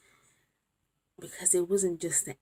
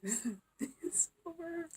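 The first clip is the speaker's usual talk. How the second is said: crying; 11 semitones higher, 3 dB quieter, much slower than usual. Real, not acted. Revision over, tearful laugh.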